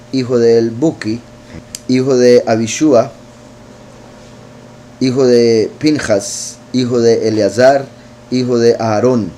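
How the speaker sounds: lectura solemne, lenta y más fuerte; lectura bíblica. Acted. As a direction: proclama el texto sagrado despacio y con peso. Reads scripture genealogy aloud. (predicador lee la genealogía a la congregación, con solemnidad lenta)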